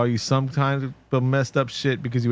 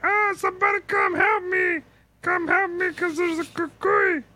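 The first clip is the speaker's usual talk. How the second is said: high, shrill mock scream for help; mock cry for help. Dad calling for help against the cucuy, in a high mock scream. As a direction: yelp it like a terrified doll.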